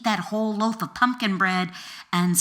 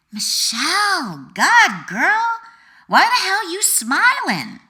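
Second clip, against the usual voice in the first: a much higher, louder teasing friend's voice, rising to a shout; friend blurting out; 11 semitones higher, 8 dB louder, slower than usual. Retold or imitated. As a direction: belt it out like a friend calling across the bus. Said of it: "a friend blurted out".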